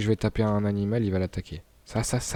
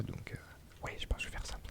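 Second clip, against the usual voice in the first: unvoiced near-whisper, much softer; muttering to self; 16 dB quieter than usual. Real, not acted. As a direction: mumble it under your breath. Se parle à lui-même, voix éteinte. (marmonné tout bas, presque chuchoté)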